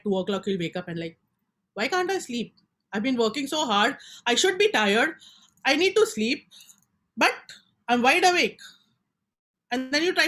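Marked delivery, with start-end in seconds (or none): 1.8-8.6 rising frustration, louder toward the end; a sleepless night's growing annoyance, building up; frustrated sleepless self. Retold or imitated. Sleepless person at two in the morning, growing louder and frustrated.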